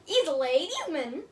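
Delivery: mock Irish accent, only lightly put on. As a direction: say it as a playful Irish guy reading a card. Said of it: "like, my Irish accent".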